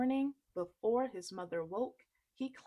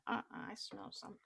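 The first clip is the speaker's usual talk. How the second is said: whispered; 9 dB quieter, much faster than usual. Acted. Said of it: "He's like".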